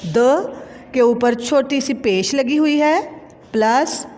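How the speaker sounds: slow, drawn letter-by-letter spelling. Shown as a demonstration. Teacher spelling a word for pupils, slow and drawn out. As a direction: sound out each letter slowly with long gaps. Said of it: "तो ये क्या अल्फाज बना".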